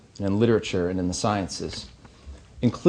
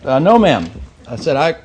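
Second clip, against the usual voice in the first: hammed-up rural Missouri accent; thick Missouri accent; 6 semitones higher, 6 dB louder than usual. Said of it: "in the thickest Missouri accent".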